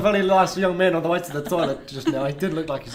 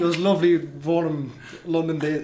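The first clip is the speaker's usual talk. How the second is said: put-on Scottish accent. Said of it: "You got a bit Scottish".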